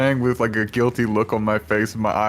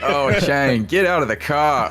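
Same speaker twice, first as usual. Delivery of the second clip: raised order; 5 semitones higher, 4 dB louder than usual. Acted. Ordering passenger out.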